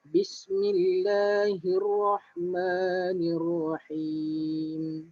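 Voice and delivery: slow, drawn-out tajwid recitation; slow Quran recitation. Shown as a demonstration. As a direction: recite it slowly for students to follow. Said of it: "Jadi ikut balik". (bacaan tajwid perlahan)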